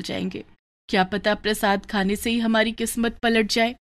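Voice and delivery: a sick poor mother speaking gently; lightly voiced frail mother, subdued; weak mother. Mother praises and sends daughter.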